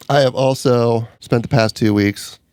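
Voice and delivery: sick, stuffy voice; man flu. Real, not acted. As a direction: talk through a cold. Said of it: "which I'm sure you can hear in my voice".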